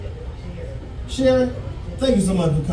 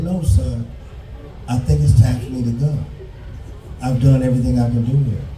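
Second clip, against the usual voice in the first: lightly voiced mother; 7 semitones lower than usual. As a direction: gently break the news as his mother, lower.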